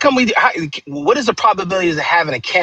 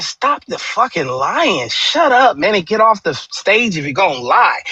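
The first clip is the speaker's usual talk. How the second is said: mock angry callout; 5 semitones higher, slower than usual. Wished-for callout of press secretary.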